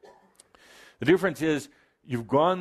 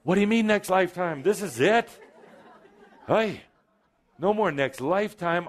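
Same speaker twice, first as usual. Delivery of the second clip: higher, mock-indignant listener voice; playfully acting out the audience's protest; 6 semitones higher than usual. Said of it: "I can feel you say".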